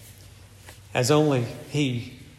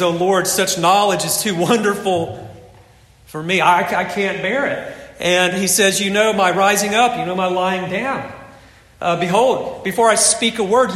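awed psalm reading; 4 semitones higher, 4 dB louder than usual. Acted. Preacher voicing the awed psalmist.

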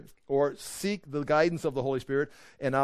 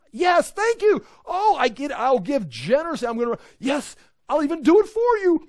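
much higher and louder, bursting with joy; excited teacher; 9 semitones higher, 6 dB louder than usual. Acted. Teacher thrilled that a student asks for help, high excited shout. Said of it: "He's excited".

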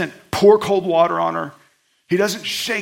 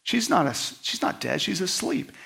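softly spoken, calm request; mild, soft-voiced assurance; gentle; 3 semitones lower, 5 dB quieter than usual. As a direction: quietly send people out without scolding. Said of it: "He's gentle".

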